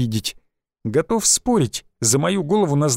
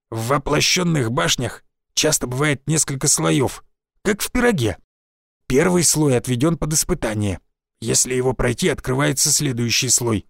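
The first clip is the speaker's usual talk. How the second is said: lightly voiced old village forester; a folksy old woodsman, a touch rough.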